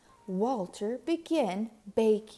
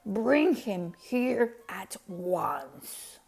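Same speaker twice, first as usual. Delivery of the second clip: louder, stern royal order; angry Duke ordering the baker brought; commanding anger; 4 dB louder than usual. A narrator's reading. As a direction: summon him in fury.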